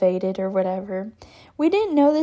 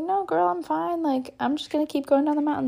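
higher, quick retold brush-off; breezy dismissal; 4 semitones higher than usual. Fallen skier insisting to ski patrol, breezy dismissal. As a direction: brush away the worry quickly. Reenacts refusing help from patrol.

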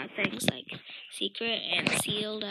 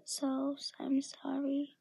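slow sleepy whisper; tired whisper; 2 semitones higher, 5 dB quieter, slower than usual. Real, not acted. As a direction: whisper it, worn out and yawning. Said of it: "I'm tired and I can't even control it".

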